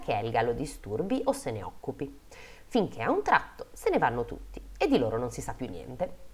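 measured fairy-tale reading; story narration. A narrator's reading. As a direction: read it out like a storyteller. Reads a fairy tale aloud.

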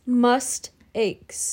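"Must aches" split into two words; pun pronunciation. Shown as a demonstration. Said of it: "M U S T A K E S".

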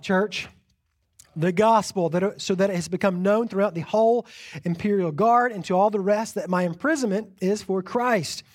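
measured scripture reading. Acted. Pastor reading Philippians to the congregation, measured. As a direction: read Philippians to the church.

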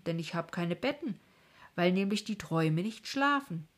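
put-on sending the children off; kindly king. King ends the visit.

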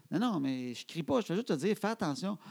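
calm reassurance. Retold or imitated. Father replays his calm answer.

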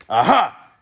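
high, loud gotcha; triumphant interruption. A narrator's reading. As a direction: cut him off, pleased. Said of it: "interrupted Officer Shrift".

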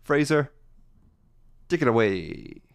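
lightly hammed-up show intro; a hint of a spooky show host; segment announcer.

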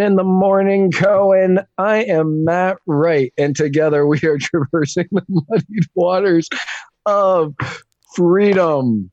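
announcer voice. Acted. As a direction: open the show like a pompous host. Mock grand show opening.

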